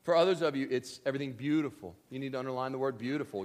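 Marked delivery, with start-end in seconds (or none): none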